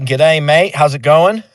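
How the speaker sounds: a mock Aussie "G'day, mate", half in jest; playful hint of an Australian accent. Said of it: "Isn't "g'day, mate" an Australian thing?".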